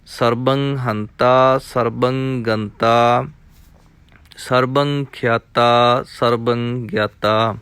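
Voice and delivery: measured, rhythmic chanting of verses; scripture recitation. Acted. Teacher reciting scripture for students, rhythmic and measured. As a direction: recite each line as sacred text, evenly.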